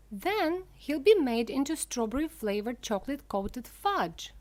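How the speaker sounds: high, loud mock scream. A narrator's reading. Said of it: "screamed Missus Gloop".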